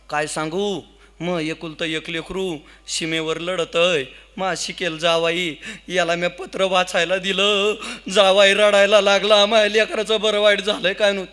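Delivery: comically acted weeping complaint; mock tearful lament. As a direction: pretend to sob through a mother's woes. Weeping mother-in-law explains in the story.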